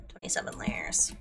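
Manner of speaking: whispered to herself; whispering. Real, not acted. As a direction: breathe it out under your breath. Counting layers under her breath.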